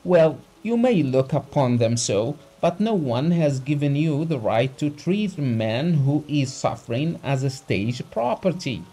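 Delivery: high, loud lecturing anger; the doctor scolding a rich man, loud and high; heated rebuke. A narrator's reading. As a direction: lash him with contempt. Doctor continues his tirade.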